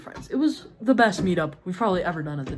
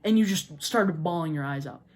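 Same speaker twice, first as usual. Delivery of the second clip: a touch of a cross big sister, a little louder at first; mildly mad scolding; 3 dB louder than usual. Retold or imitated. Older sibling scolding her crying sister, mildly mad. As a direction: retell the telling-off with mild annoyance. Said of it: "pretty mad at my sister".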